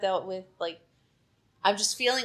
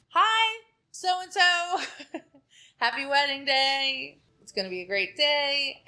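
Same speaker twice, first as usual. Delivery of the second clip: high, chirpy wedding-morning hello; cheery greeting spiel; 6 semitones higher, slower than usual. Retold or imitated. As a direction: sell the happy morning greeting. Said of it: "I do my whole, like, spiel".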